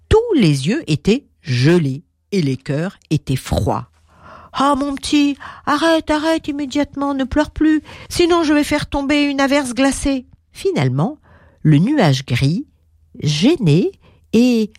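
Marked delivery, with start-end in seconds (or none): 4.6-10.3 cloud scolding. Acted.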